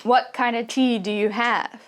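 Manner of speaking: "what kind of" run together, "tea" kept clear; linked words, clear tea. Shown as a demonstration. English teacher demonstrating connected speech, stress on tea. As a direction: link the grammar words and let "tea" stand out. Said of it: "are going faster".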